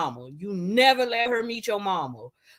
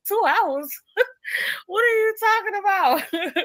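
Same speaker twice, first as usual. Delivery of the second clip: incredulous; 7 semitones higher than usual. Retold or imitated. Mocking incredulous reaction.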